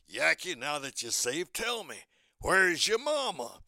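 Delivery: cartoon bulldog questioning a little duck; kindly big cartoon dog; Chopper. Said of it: "Chopper says".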